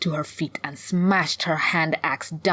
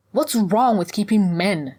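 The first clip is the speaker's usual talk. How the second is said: louder, higher, indignant question; defiant challenge; 5 semitones higher, 6 dB louder than usual. Acted. Hunter challenges the hag over keeping men, defiant. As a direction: challenge her, pitched up and loud.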